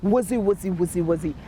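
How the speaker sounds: low babble of judges; mock judges muttering. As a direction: murmur like conferring judges.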